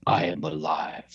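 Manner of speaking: lightly voiced robotic monotone; a hint of a cold machine. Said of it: "this robotic voice that goes".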